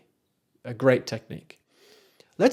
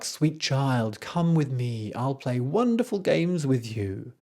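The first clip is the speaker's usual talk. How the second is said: luring Erlking; slower than usual. Retold or imitated. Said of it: "trying to lure the child in".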